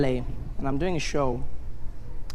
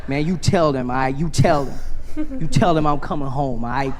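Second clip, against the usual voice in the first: emphatic instruction; 4 dB louder than usual. Retold or imitated. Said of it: "comedian's emphatic message".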